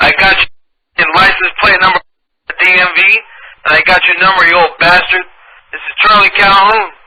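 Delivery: hammed-up furious tirade; angry rant. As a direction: berate him like a crank neighbor. Prank caller's ranting tirade.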